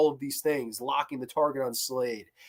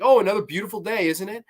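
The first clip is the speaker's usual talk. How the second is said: cheery Robin; 6 semitones higher, 3 dB louder, faster than usual. Retold or imitated. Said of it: "Robin kinda walks up to her and is like".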